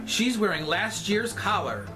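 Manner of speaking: slow, emphatic gossip voice; mock scandalized, drawn out; sassy drag queen. Repeats the gossip louder and slower.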